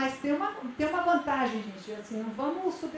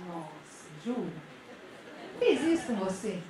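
outraged gossipy friend. Retold or imitated. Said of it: "Sabe aquele amigo que quando alguém chega contando um problema".

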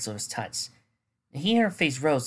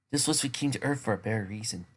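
sobered; 2 semitones lower, 5 dB quieter than usual. Acted. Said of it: "he sobered".

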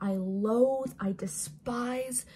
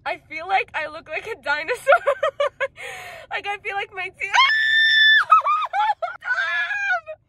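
muffled through palm; laughing behind hand; hand over mouth; 10 dB louder than usual. Real, not acted. Seen 0: Hand covers mouth in every frame while speaking and laughing.

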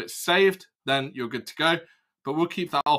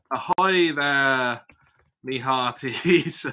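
pirate voice; much slower than usual. Pretend. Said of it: "Let's be a pirate".

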